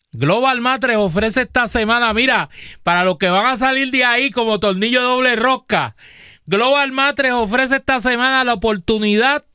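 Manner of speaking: measured sponsor pitch with prices; steady promotional announcer delivery; radio ad read. Real, not acted. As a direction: sell it like a live radio host.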